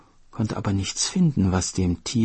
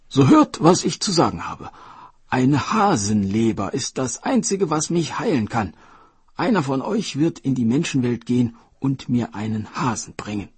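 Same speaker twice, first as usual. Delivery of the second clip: much higher and louder royal proclamation; royal command; 5 semitones higher, 5 dB louder than usual. Acted. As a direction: summon the court with authority. King summons his officials.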